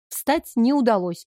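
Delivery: usual speaking voice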